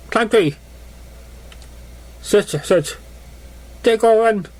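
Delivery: high, wide-eyed pony voice; childlike pony. Acted. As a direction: wander and wonder like a small pony. Pony exploring Ponyville in voice.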